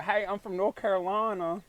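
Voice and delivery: hammed-up Southern accent greeting. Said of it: "'Cause if I sound like them".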